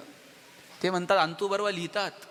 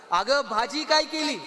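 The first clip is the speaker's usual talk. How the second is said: loud, slow "अगं भाजी काय केली?" with a hard stress on "काय"; पत्नीच्या कानात मोठ्याने ओरडणे; shouting into her ear; 5 semitones higher, 4 dB louder than usual. Retold or imitated. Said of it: "जोरात कानात ओरडला".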